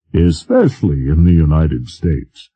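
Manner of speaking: lightly dark and grim; a touch of grim foreboding; darkly. Acted. President answering the general about crackpots, lightly dark. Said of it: "the president said darkly".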